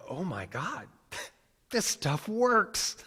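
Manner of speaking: high, loud, slow amazed laugh through the words; half-laughing in amazed delight; laughing disbelief. Real, not acted. Telling the audience about the stranger's words, laughing and amazed. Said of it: "And I was like".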